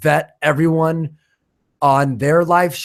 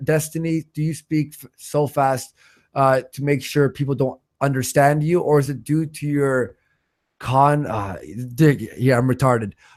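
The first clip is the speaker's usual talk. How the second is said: usual speaking voice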